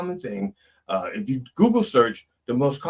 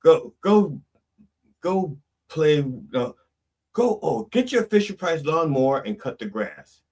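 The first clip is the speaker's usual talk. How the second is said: busy mom; 4 semitones higher than usual. Acted.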